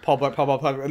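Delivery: quick repetitions run together; rapid tongue twister. Shown as a demonstration. Podcaster dared to say it ten times fast, rapid tongue twister. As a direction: rattle off Paul Blart as a tongue twister. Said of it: "say Paul Blart ten times fast".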